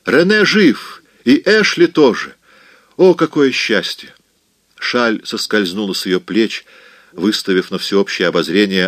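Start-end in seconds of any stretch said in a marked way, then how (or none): 0.0-4.1 much higher and louder, overjoyed; joyful cry. A narrator's reading. Maybelle cries out her husband is alive, overjoyed. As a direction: burst out with the good news. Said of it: "радостно кричала Мейбл".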